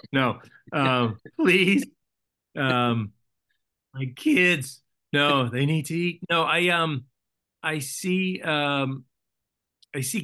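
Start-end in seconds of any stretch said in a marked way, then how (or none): 1.4-6.2 put-on jokey pleading with the writers over his hungry kids; mock begging. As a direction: play the desperate dad begging for work. Jokingly begging writers to return.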